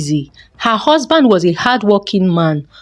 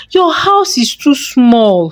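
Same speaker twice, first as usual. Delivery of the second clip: slow, higher-pitched complaint; complaining; 4 semitones higher, slower than usual. Acted. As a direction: grumble it out like a disdainful mother. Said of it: "she would complain".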